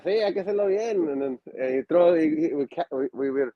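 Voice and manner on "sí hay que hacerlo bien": higher put-on trainer voice, insisting; a light impression of the trainer insisting; Super Mojado impression. Trainer telling students to do the flip again properly, lightly voiced. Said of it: "impersonation of, uh, uh, Super Mojado".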